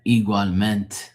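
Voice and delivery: "igualmente" ending on a bare "ment"; Portuguese pronunciation. Shown as a demonstration. Explaining the Portuguese way, final e dropped. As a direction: drop the last e of "igualmente". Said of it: "igualmente in Portuguese, that's how you say it".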